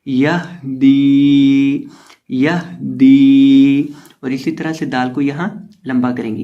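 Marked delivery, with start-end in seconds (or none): 0.1-3.9 यह दी with a breathy हा from the throat, very slow. Shown as a demonstration. Teacher demonstrates the हा sound in यह दी. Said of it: "तो इसकी आवाज़ आएगी".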